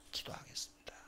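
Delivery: whispered vow. Retold or imitated. David whispering his vow to pray to God. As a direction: breathe the vow out.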